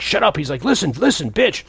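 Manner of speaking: mock rude brush-off.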